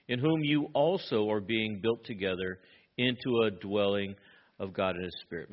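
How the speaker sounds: measured, slightly subdued Bible reading; scripture reading. Acted. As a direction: read the passage evenly and reverently to the congregation. Reads scripture aloud to congregation.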